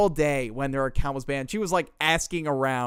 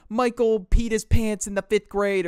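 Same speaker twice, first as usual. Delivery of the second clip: mock girl voice; 8 semitones higher, 5 dB louder than usual. Girl spreading lies on stage.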